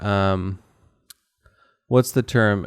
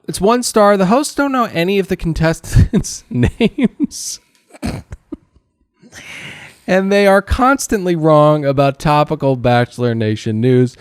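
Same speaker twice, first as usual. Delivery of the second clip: a hint of a snooty reviewer, higher; mock reviewer voice; 7 semitones higher, 4 dB louder than usual. Host reading a one-star review aloud, lightly mocking. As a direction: read it like an offended critic.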